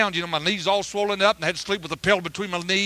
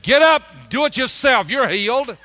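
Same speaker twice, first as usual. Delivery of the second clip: much higher and louder, scolding bark; wife's retort; 6 semitones higher, 7 dB louder, slower than usual. Retold or imitated. Wife scolding her injured husband to get up himself, loud. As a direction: snap it at him, no sympathy. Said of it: "She said".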